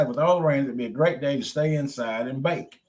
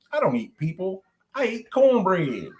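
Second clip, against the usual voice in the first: gentle; 7 semitones higher than usual. Acted. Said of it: "gently said".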